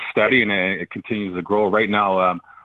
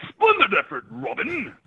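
soccer announcer voice; 13 semitones higher, slower than usual. Acted. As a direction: belt it out like a match commentator. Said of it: "I wanted to use my soccer announcer voice".

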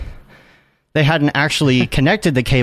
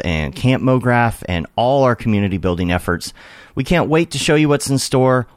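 ad read; 3 semitones lower than usual. Acted. Sponsor read mid-podcast.

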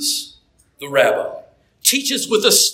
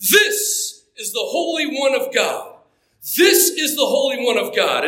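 unearthly scary demon voice; 5 semitones higher than usual. Acted. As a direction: let the demon shriek it out in terror. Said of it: "crying out in an unearthly, scary voice".

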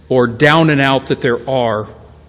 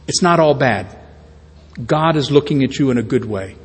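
softly reassure, as if comforting the suffering; mildly soothing quoted voice, settling softer toward the end; gentle reassurance; 5 dB quieter than usual. Acted. Voicing Jesus reassuring the suffering.

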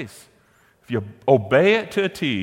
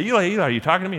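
higher, louder, eager questioning call; retold calling out; 8 semitones higher, 5 dB louder, much faster than usual. Preacher voices young Samuel waking Eli, calling out eagerly. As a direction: call out as if summoned in the night.

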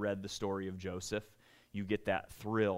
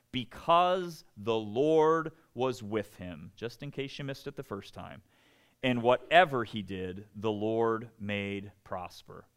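scripture reading; 4 dB louder than usual. Acted. Reads scripture aloud solemnly.

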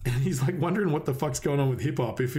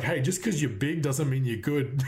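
slow, deliberate jab with a laugh in it; laughing quote. Retold or imitated. Band taunting a singer, slow and laughing. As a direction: deliver the insult while chuckling. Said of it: "And they're like".

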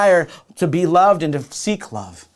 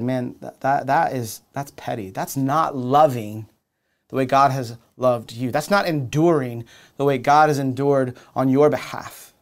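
loving rebuke. Retold or imitated. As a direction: correct a friend tenderly, almost hushed. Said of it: "in the most loving way".

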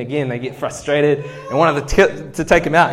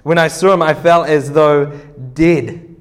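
dramatic reading; 5 dB louder than usual. Acted. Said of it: "here is his reaction to this".

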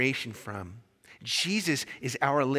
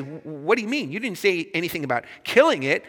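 higher, louder mock alarm; freaking out; 3 semitones higher, 5 dB louder than usual. Ghost protesting to the angel, mildly freaked out. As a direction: stammer into a flustered protest. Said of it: "the ghost kind of freaks out".

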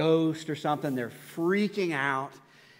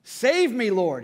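high, loud cry for rescue; acted panicked shout; 6 semitones higher, 7 dB louder, much slower than usual. A narrator's reading. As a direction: shout for help as you sink. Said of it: "he shouted".

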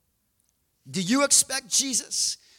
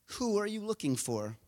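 Jesus; 9 dB quieter than usual. Acted. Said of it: "he says".

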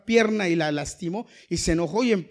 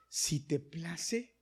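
meek offer; 8 semitones lower, 10 dB quieter, much slower than usual. Acted. Balaam meekly offers to turn back.

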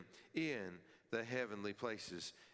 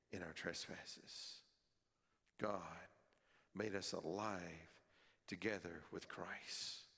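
tender hush; 2 semitones lower than usual. Acted. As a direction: let the grace land gently. Quiet, slow, tender reading.

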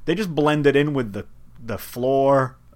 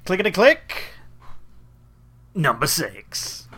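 bingo caller; 4 semitones higher than usual. Pretend. Imitating bingo caller calls.

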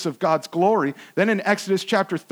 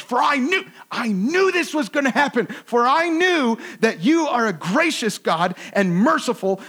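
aggrieved Jonah; 4 semitones higher than usual. Shown as a demonstration. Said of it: "let me get the right, uh, tone here".

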